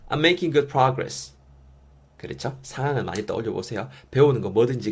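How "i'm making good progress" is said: very slow, every syllable laid out; slow model reading. Shown as a demonstration. English teacher modeling the phrase for learners, very slow. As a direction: model it slowly for students to copy. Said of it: "영어로 해볼게요".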